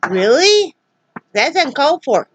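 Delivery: mock-offended at the dog; offended disbelief. Real, not acted. Owner reacting to her sassy dog, offended.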